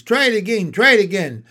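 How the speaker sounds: high, loud urging; excited goose calling out encouragement; cheering cry. A narrator's reading. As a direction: cheer them on to another attempt. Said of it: "cried the goose".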